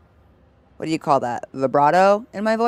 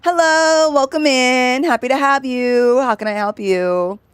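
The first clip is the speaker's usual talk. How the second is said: much higher, louder phone greeting; customer service voice; 7 semitones higher, 4 dB louder, slower than usual. Shown as a demonstration. Demoing a phone job greeting to chat, pitched high. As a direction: chirp it like a phone clerk. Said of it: "pitching our voices up".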